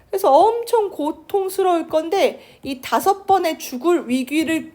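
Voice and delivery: loud, slow, solemn fortune-teller voice; fortune teller's pronouncement. Retold or imitated. Fortune teller to the parents, a loud slow prophecy. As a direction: declare the child's whole fate like a seer.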